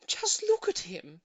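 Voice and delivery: slow, proud and pleased; a proud owner's gentle boast; proudly. A narrator's reading. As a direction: show off the pet with pride.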